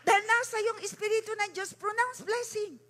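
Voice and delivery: rally the church to act; fired-up preacher's call; preaching at full force. Acted.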